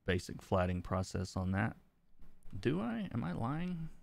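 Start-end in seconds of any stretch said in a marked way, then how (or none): 2.6-3.9 surprised. Real, not acted. Doubting herself aloud.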